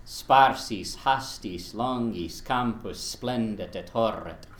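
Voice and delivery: Sparsis, hastis, longis, campus, splendit et horret, each word a separate beat; every word on the beat. Shown as a demonstration. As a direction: blam along word by word. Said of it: "Just kind of blams along".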